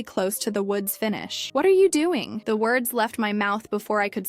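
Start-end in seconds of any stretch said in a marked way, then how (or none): 1.5-2.4 high, loud outraged question; indignant, raised-voice challenge; shocked fury. A narrator's reading. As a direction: burst out in shock and anger. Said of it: "my voice trembling with a mixture of shock and fury".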